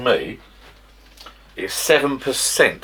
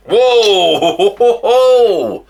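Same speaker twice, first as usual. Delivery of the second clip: loud high startled shout; startled whoa; 13 semitones higher, 9 dB louder than usual. Real, not acted. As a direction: jump at the sudden pop. Cider bottle pops open suddenly.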